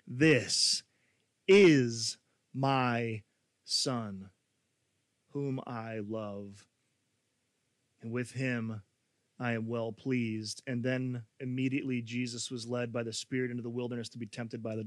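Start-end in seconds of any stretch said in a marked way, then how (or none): 0.1-10.6 low, soft, slow voice from heaven; ominous voice of God. Acted. Reading the heavenly voice at baptism, low and hushed. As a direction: give God's words with slow, hushed gravity. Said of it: "that ominous voice".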